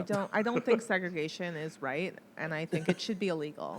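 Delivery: soft, mock California accent. Asked to say it the California way, soft California accent. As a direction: put on a light California accent. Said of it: "say it in the California way".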